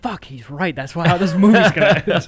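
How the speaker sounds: high, loud laugh breaking through. Retold or imitated. Realizing the dad guessed the ending, laughing high and loud. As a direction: cry it out laughing in disbelief.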